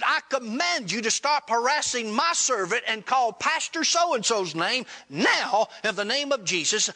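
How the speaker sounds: imitated stern rebuke; retold command. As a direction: act out casting authority over a spirit. Acted command to an evil spirit.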